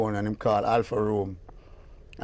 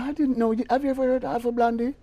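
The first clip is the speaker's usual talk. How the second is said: quoting the British lady; 12 semitones higher than usual. Retold or imitated. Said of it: "she said".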